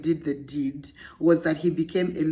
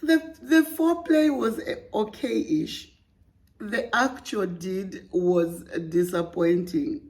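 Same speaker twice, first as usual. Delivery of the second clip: giggly read; 3 semitones higher than usual. Real, not acted. Host trying to read without laughing. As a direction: hold back the laughter. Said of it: "Let's start again".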